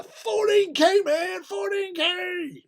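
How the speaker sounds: imitating a thrilled American skydiver; hyped American brag. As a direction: brag it like a pumped-up dude. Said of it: "just giving it really large".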